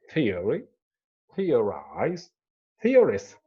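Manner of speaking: "theory, theorize, theorist" each stressed on THE; stress on first syllable. Shown as a demonstration. Teacher giving another example, first syllable stressed. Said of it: "on the first one".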